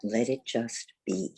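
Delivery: unhurried yoga teacher's guidance, long pauses between thoughts; guided meditation. Real, not acted. Teacher guides seated students into the breath, guided meditation. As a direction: guide them gently inward, leaving space after each phrase.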